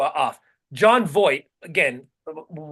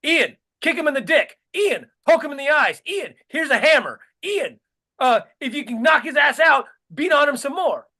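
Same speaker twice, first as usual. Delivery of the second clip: higher, goading mock Trump; egging-on mock Trump; 6 semitones higher than usual. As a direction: egg the fighter on, pitched up. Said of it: "Trump's over here going".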